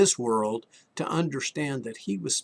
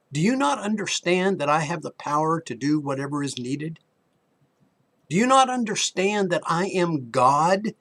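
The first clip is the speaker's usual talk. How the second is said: building preacher's plea; 4 semitones higher, 3 dB louder than usual. Retold or imitated. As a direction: build each question as Jesus's frustrated appeal. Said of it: "this is what he was saying".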